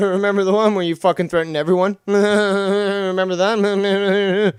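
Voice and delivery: cackling mockery of his threats; laughing taunt. Real, not acted. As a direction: laugh while mocking him. Mocking laughter at rival.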